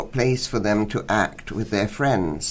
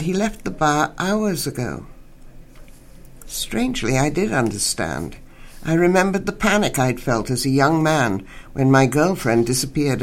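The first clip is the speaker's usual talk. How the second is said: measured literary reading voice; story reading. Acted. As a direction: read the short story aloud for radio listeners. Reads short story aloud on radio.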